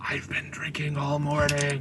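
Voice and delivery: drawn-out, hushed half-whisper, very slow. Voicing a shopkeeper leaning toward a customer: half-whispering. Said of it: "he whispers towards you".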